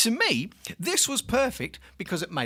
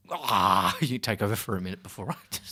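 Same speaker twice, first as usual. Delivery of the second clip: big sighing "ah", then dropping lower; having a meltdown; 8 semitones lower than usual. Real, not acted. Host asking co-host to take over, mid-meltdown. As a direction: sigh hard and hand over, overwhelmed. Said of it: "he has his meltdown".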